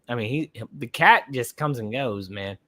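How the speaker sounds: hiccups between words; speech jolted by hiccups. Real, not acted. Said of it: "Apologize for the hiccups".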